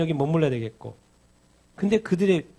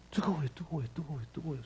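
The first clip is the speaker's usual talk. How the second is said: hushed murmur; 11 dB quieter, faster than usual. Acted. Softly repeating burning heart.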